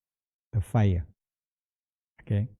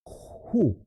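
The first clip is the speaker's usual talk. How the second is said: who sound; 5 semitones higher than usual. Shown as a demonstration. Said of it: "the spleen and stomach sound is".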